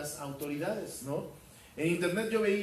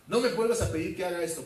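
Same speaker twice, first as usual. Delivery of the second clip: a firm, faster father's rebuke, a bit louder; angry father; 3 semitones higher, 5 dB louder, faster than usual. Retold or imitated. Father scolding his son at the red light, a mild mock anger. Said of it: "el papá se enojó".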